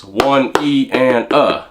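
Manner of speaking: slow "one E and uh", doubling up on the "and" and the "uh"; slow count. Shown as a demonstration. Teacher slows down to show the new sticking. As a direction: spell it out slowly, word by word. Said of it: "You can go like this".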